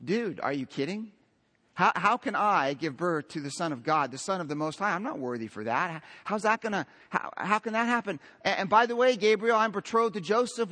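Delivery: hammed-up disbelief; mock exasperated Mary. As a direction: play an overwhelmed teenager protesting. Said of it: "would have said something like".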